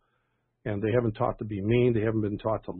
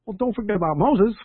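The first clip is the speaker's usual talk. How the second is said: put-on quick, high and louder like a four-year-old; lightly voiced child correcting her dad; matter-of-fact little girl; 10 semitones higher, 6 dB louder than usual. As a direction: toss it off as if it's obvious. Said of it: "she said so quickly and, and a matter-of-factly".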